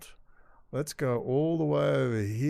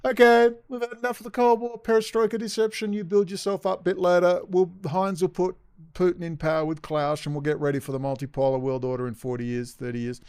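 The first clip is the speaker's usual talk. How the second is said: higher, louder scheming voice; hammed-up plotters' voice; mock planners; 5 semitones higher, 3 dB louder than usual. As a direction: play the smug planners, higher. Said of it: "They just switched off the Cold War".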